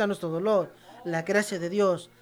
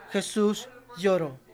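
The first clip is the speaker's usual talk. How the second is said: "Jesús lloró" said slowly for the congregation to repeat; slow and deliberate; slower than usual. Shown as a demonstration. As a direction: model it slowly for them to echo. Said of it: "dígalo". (lento, para que lo repitan)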